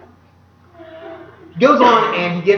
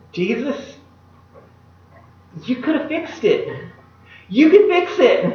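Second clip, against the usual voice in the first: pleading; 5 semitones higher than usual. Retold or imitated. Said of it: "And we're thinking".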